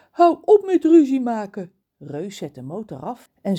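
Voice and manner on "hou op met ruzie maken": higher, louder stern order; stern call. Acted. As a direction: tell the squabblers off. Reus stopt de ruzie. (streng en luid)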